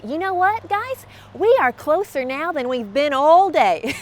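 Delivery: slow, emphatic dad answer, starting high; dad's response. Retold or imitated. Dad answering the kids on the trip, slow and emphatic. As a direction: stretch it out like a patient parent. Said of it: "he always had this great response".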